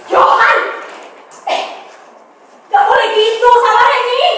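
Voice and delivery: high, sharp yell of protest; scolding shout. Acted. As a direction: friend yelling at Johan to stop hugging Reni. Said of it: "dan ia berteriak".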